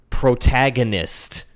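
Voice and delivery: slow, awed announcement of the word protagonist; hammed-up epic reveal; mock dramatic reveal. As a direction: draw it out like a movie trailer. Mock dramatic naming of friend.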